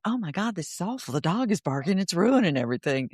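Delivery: hammed-up panic over a barking dog; anxious inner voice, mildly overdone; mock panicked thought. Shown as a demonstration. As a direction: play the spiralling thought, lightly fretful. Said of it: "The thought".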